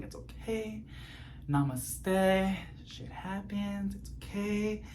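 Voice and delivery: soft, hushed self-soothing; a hushed namaste to yourself; mock zen calm. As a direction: talk yourself down, barely aloud. Telling himself to stay calm.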